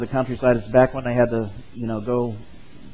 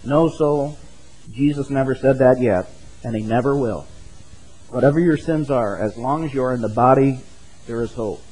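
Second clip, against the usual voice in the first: put-on lightly raised old-style preaching read aloud; sermon reading. Pastor reads Spurgeon's appeal to the congregation, a hint of old-style preaching.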